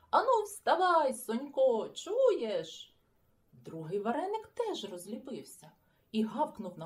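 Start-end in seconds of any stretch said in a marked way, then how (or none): 0.1-3.0 loud, high wake-up shout. Acted. Boy shouting through the window at sleeping friend, loud. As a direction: yell him out of his sleep. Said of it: "закричав".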